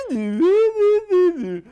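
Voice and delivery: very high, loud squealing caricature sound; mock Belgian accent. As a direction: squeal out a mocking Belgian impression. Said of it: "And then he did Belgian".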